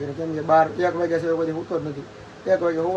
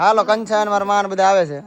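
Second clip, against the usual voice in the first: calling out; 3 semitones higher, 6 dB louder than usual. Real, not acted. Calling family to go.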